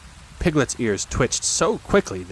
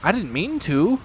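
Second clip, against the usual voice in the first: sorrowful; 8 semitones higher than usual. A narrator's reading. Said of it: "said Pooh sorrowfully".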